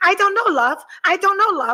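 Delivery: put-on mangled English accent. Retelling how your cruise companion answers you, in a butchered impression of Juliet's English accent. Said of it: "Juliet has a beautiful English accent, and I'm fucking butchering it".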